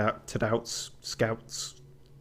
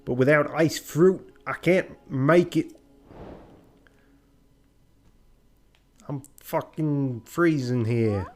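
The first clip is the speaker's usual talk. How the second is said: put-on raised, slowed New York accent; 4 semitones higher, 3 dB louder, slower than usual. Inventor stuck without ice fruit, hammed-up New York accent. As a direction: complain like a put-on New Yorker. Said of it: "we're giving up on the accent".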